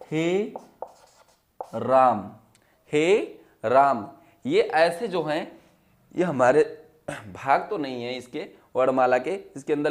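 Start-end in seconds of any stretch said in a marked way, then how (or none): 2.9-4.1 हे राम drawn out slowly, vowels held long; prolonged he ram. Shown as a demonstration. Teacher demonstrating a pluta vowel to students, slowly drawn out. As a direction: stretch हे राम like a long call. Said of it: "आपने सुना होगा".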